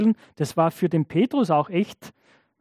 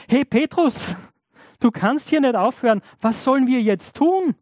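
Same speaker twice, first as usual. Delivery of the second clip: urgent crowd; 5 semitones higher, 3 dB louder than usual. Acted. Crowd urgently begs Petrus.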